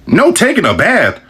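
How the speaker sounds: no taking a bath, high and drawn out; slow incredulous repeat. Real, not acted. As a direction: repeat it like it's crazy. Repeating in disbelief.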